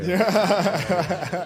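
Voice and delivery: loud, high burst of laughter. Real, not acted.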